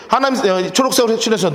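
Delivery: normal talking voice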